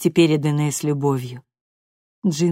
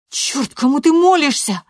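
higher, louder, angry retort; spat out; 11 semitones higher, 7 dB louder than usual. A narrator's reading. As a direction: snap it at her praying mother. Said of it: "процедила Лоредо".

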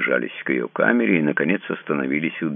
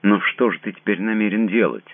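trembling question; 8 semitones higher, 4 dB louder than usual. A narrator's reading. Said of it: "голос её дрожал".

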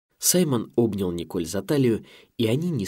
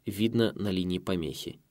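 ordinary delivery

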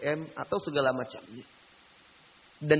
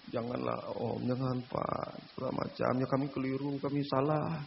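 begging; 3 semitones lower, 8 dB quieter than usual. Retold or imitated. Teens begging not to tell.

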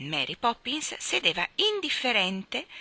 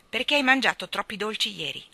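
brusque; 3 semitones higher, 5 dB louder than usual. Acted. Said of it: "obiettò Mary Poppins bruscamente".

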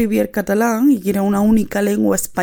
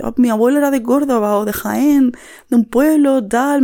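louder, rising excited recollection; excited reminiscing; 4 semitones higher, 3 dB louder than usual. Retold or imitated. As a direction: gush about grandpa's village. Imitando a catalanes emocionados. (un catalán emocionado recordando a su abuelo, más alto)

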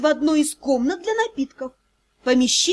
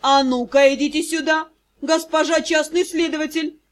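menacing voice. Acted. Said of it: "Очень недобрым голосом начал он".

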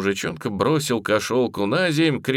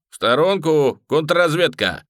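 loud commanding call to clear the way; shouting orders; 6 semitones higher, 5 dB louder than usual. A narrator's reading. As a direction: bark people aside. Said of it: "покрикивал". (громко покрикивает)

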